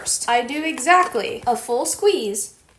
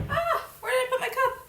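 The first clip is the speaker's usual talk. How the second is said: high, laughing whine over the lost cup; half-laughing, half-wailing in mock despair; 13 semitones higher, 4 dB quieter than usual. Real, not acted. Can't find her cup, laughing.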